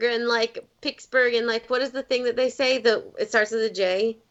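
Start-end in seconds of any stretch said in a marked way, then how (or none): 0.8-1.3 Pittsburgh accent, "Pittsburgh" turned into "Picksburgh"; Pittsburgh-accent demo of "Pittsburgh" as "Picksburgh". Shown as a demonstration. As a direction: show how locals say "Pittsburgh", with a k. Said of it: "What's the Pittsburgh accent?".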